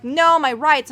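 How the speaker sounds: mocking whine. Mocking anti-mask people.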